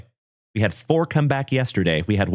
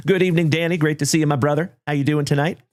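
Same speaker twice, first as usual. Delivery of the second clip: excited greeting; 4 semitones higher than usual. Real, not acted.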